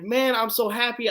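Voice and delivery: reenacted happy gush, pitched high; gushing fan. Fan telling the star he's glad, gushing.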